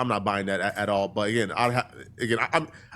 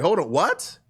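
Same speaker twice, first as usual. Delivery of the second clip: mock offended mom. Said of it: "she got really offended".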